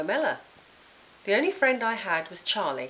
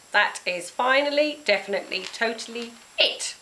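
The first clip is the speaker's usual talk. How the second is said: higher, louder angry shout; 5 semitones higher, 4 dB louder than usual. Acted. Girl shouting at the aunts, fed up. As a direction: explode at last. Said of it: "I shouted".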